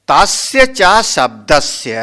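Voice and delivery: measured, slow Sanskrit chanting; slow scriptural recitation. Shown as a demonstration. Guru slowly intones the verse for his listeners, measured recitation. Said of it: "हाँ देखो".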